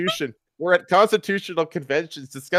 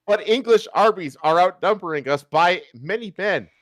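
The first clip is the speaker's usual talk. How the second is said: anguished despair; 4 semitones higher than usual. Acted. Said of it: "anguished with despair".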